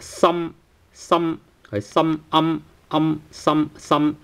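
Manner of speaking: Some ending on closed lips; closed final m. Shown as a demonstration. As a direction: close your mouth on the m of Some. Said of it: "eventually you have to close your mouth".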